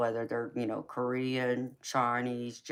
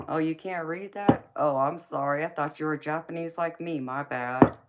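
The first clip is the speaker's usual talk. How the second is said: higher, louder mock-innocent reply; mock apology; 4 semitones higher, 4 dB louder than usual. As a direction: feign an innocent apology, pitched up. Imagined sarcastic reply to onlookers.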